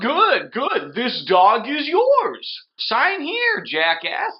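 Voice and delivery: tossing off an insult with the parcel; snippy courier. Retold or imitated. Delivery guy handing over the puppy, mock snippy and high.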